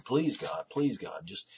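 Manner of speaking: mild, retold begging; understated appeal to God; pleading. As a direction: plead gently, pitch slightly lifted. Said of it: "he was pleading".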